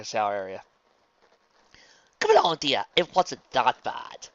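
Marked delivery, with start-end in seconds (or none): 2.2-4.3 louder, higher, drawn-out reassurance; brisk coaxing. Acted. Rarity urging Luna after the shower, coaxing. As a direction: chivvy along a reluctant friend.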